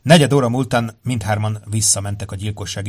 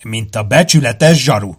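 put-on British accent; 6 dB louder than usual. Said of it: "rosszul imitált brit kiejtésre váltott".

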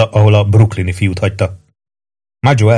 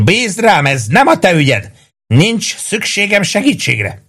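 high, insistent cry; yelled refusal; 10 semitones higher, slower than usual. A narrator's reading. Maggio refuses Prue's help, crying out high. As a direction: wave off help in a high-pitched yell, volume held. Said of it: "üvöltötte Maggio".

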